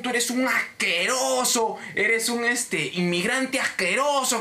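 high, indignant tirade with drawn-out insults; outraged customer. Retold or imitated. Cliente que insulta al agente, indignado. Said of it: "el huevón ahí voló".

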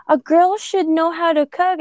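high mimicking voice; mocking voice. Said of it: "they'd be like".

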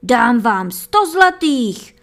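loud, slow, urgent offer; miller shouting. A narrator's reading. Miller shouts a big offer for the hammer, loud and urgent. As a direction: shout the offer, desperate to buy. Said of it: "křičel mlynář".

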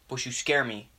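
lightly voiced douchebag tough guy; a hint of American bro bravado. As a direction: play a mildly aggrieved douchebag. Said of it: "slowly going from American douchebag".

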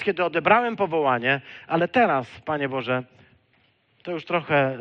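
acted protest with rising force; insistent protest. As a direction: press each memory forward emphatically. Moses protests to God, acted.

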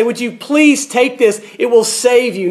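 acted insistent appeal; urgent insistence. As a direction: press it on them like a doctor urging a remedy. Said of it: "an insistence, say".

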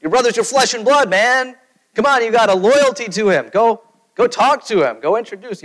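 a friend mock-outraged about family loyalty; indignant scolding. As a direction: scold him for disowning his own brother. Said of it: "you'd be like".

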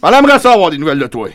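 pleading father. Acted. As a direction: beg your daughter to come home. Father pleading with daughter on-air.

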